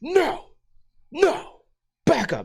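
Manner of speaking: mock stern, mean, angry, high and swooping. Speaker retells backing off a shepherd dog on a walk: retelling a mean angry voice. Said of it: "I put my mean voice on, my my mean angry voice".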